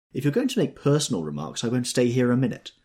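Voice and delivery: loud, high-pitched warning; scolding threat. A narrator's reading. Daisy warning Tom off personal remarks, scolding. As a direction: raise pitch and volume to scold.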